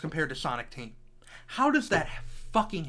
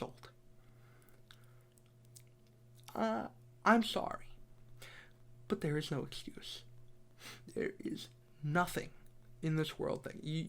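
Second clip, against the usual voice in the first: defeated; 2 semitones lower, 6 dB quieter than usual. Real, not acted. Deflated after the rant.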